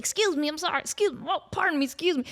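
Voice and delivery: apologetic intern dodging past partygoers; timid intern. Retold or imitated. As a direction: squeeze politely through the crowd. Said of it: "And he's like".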